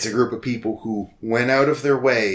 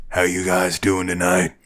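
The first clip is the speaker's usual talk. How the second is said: barbecue sauce commercial redneck voice; Old Stan; 3 semitones lower than usual. Acted. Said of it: "barbecue sauce commercial redneck voice".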